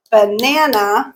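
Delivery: banana stretched slowly over three beats; syllable beats. Shown as a demonstration. Teacher counting syllables for learners, banana in three slow beats. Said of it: "three beats".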